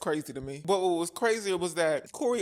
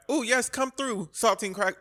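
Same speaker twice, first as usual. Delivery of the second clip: higher, drawn-out cheering-on; mock approval; 5 semitones higher, slower than usual. Vlogger imagines hyping up the saltine cracker, mock approval. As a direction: cheer it on, pitched up and slower. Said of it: "and not in the way of".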